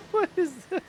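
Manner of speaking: high squeaky mimic of the line; squeaky echo. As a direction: parrot it back in a tiny high voice. Player echoes game line mockingly.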